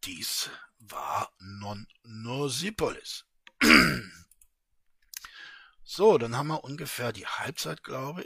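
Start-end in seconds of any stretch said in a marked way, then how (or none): 0.0-3.2 closing whisper. A narrator's reading. Closing line of the story.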